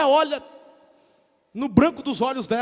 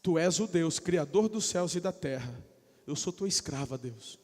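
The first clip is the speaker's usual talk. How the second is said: softer, lower, humble prayer; humble Maria; 4 semitones lower, 5 dB quieter than usual. Acted. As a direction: pray it softly as Maria. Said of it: "Ela fala". (Maria orando baixinho, humilde)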